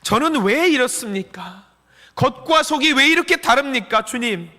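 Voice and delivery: anguished prayer, rising in pitch; acted tearful plea. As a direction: cry out to the Lord, imploring. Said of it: "울면서 주님께 매달려야 합니다".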